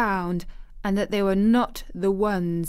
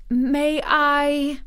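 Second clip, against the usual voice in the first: put-on high, louder child's question; anxious girl; 7 semitones higher, 5 dB louder than usual. A narrator's reading. Anxious girl asking her guardian's permission, high and tentative. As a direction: ask hopefully in a high girl's voice.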